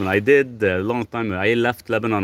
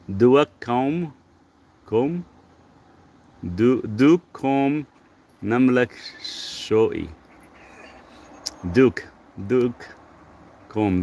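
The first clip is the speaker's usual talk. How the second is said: Lebanese accent; 4 semitones higher, much slower than usual. Shown as a demonstration. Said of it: "Read it with Lebanese accent".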